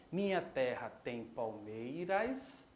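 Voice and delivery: slow scansion of "Minha terra tem palmeiras", syllable by syllable; escansão do verso. Shown as a demonstration. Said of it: "observando a primeiro, o primeiro verso". ("Minha terra tem palmeiras" devagar, sílaba por sílaba)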